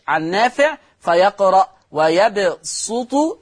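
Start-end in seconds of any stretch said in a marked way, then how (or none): 1.9-3.4 slow ويبسط said wa-yabsutu with a heavy, emphatic s; pure sad. Shown as a demonstration. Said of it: "يقرأها بالصاد الخالصة".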